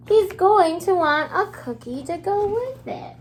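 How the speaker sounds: gasping storybook reveal; delighted read-aloud; excited reveal. Acted. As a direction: surprise the kids with the answer. Gasp then reading page.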